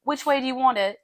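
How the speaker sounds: high British vendor patter, stumbling over it; bad British accent. Food-cart seller asking a customer's order, bad British accent. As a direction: attempt a British street seller's accent, badly. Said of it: "Oh, that was a bad British accent".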